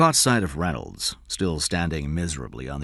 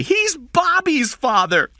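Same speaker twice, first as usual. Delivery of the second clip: put-on louder, higher desperate boy's cry; desperately; 8 dB louder, slower than usual. A narrator's reading. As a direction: plead in panic. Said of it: "Jeff said desperately".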